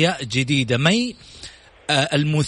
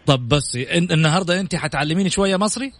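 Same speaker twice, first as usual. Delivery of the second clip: a Saudi speaking Egyptian Arabic accent, laughing; 3 semitones higher than usual. Shown as a demonstration. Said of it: "حقيلك باللهجة المصرية دلوقتي".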